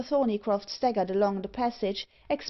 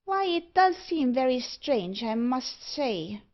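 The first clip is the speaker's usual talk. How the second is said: lightly voiced dwarf, pitched up then slowing; puzzled dwarf; 4 semitones higher than usual. Dwarf remarks on the strange passage, puzzled. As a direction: muse aloud as a puzzled little dwarf.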